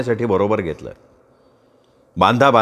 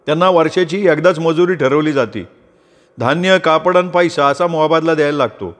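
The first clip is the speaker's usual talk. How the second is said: higher, easy voice of Sopan explaining; explaining farmer; 5 semitones higher than usual. Acted. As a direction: tell a friend about the farm, proudly. (मित्राला शेताची माहिती देणारा सोपान)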